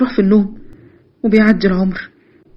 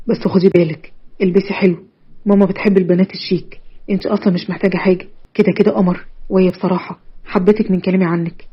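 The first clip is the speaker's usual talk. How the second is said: put-on coaxing boyfriend, a touch lower; lightly voiced suitor; 3 semitones lower, 3 dB quieter than usual. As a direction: reassure her in a slightly lowered voice.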